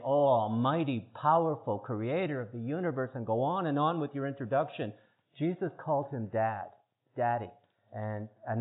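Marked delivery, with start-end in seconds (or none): 0.0-3.1 a lightly hammed-up reverent plea; mock formal prayer. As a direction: lay it on like a pompous petitioner. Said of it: "supposed to be on your knees saying".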